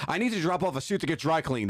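the panicky Daniel voice; flustered assistant. Retold or imitated. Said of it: "I'd be like".

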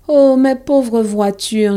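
slow, mournful moan. Acted. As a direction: lament each lost toy slowly. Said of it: "gémit Thomas".

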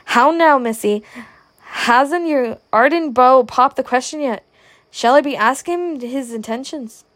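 mock-bellow it across the table; rude bellow. Father teasing his daughter at supper, a mild mock bellow. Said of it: "rudely bellowed across the supper table".

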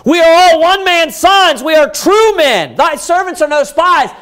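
high, insistent protest; desperate pleading. Acted. Accused brothers pleading before the governor, desperate. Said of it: "they're trying to beg him".

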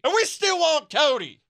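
high, loud fan insistence; mock redneck fan; rowdy fan voice. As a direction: insist like a die-hard fan. Fan voice continues.

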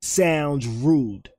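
"rude" with heavily rounded lips; lips pushed into it. Real, not acted. Explaining the New York accent, "rude" with pouted lips. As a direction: push all your lips into "rude". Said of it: "all your lips into that".

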